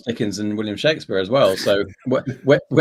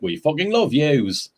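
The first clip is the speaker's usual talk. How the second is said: put-on Geordie accent; slower than usual. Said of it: "doing his northern voice".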